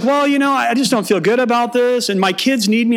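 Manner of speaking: high, hesitant wife voice; lightly voiced hesitant wife; imitating wife. Pastor mimicking wife backing out, high and unsure. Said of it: "and she's like".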